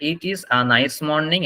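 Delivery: slow demo, "a" as "ah"; "a" pronounced আ. Shown as a demonstration. Teacher asking students to note it, slow model sentence. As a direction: stretch it out, saying "a" as "ah". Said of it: "ওইটার উচ্চারণ হবে আ".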